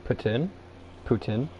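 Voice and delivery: poutine as "poo-tin", plain t, rising at the end; English pronunciation. Shown as a demonstration. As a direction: say "poutine" with a short last vowel and no "ts". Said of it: "English people will call it poutine or".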